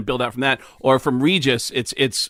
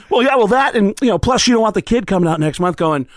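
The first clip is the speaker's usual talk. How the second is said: high, loud, rambling comeback; Sam impression; 7 semitones higher, 4 dB louder than usual. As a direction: babble an excuse in a weird, high cadence. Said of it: "cadence of that weird, uh, accent he has".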